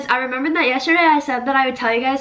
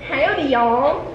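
southern accent; slower than usual. Shown as a demonstration. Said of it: "Do a southern accent".

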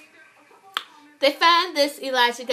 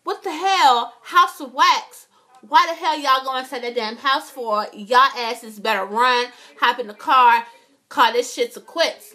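mock yell at characters; 4 dB louder than usual. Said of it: "So now I'm thinking".

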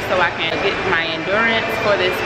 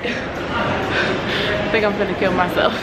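laughing; slower than usual. Real, not acted. Exhausted mid-workout, laughing.

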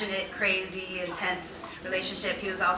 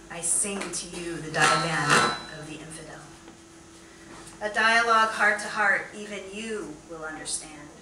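poetry reading; 2 semitones lower than usual. Acted. Poet reads love poem to beloved, measured recital. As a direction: let each line settle before the next.

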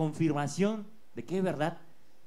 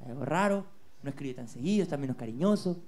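inner voice; 5 semitones lower than usual. Acted. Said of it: "esa voz comienza a decirte".

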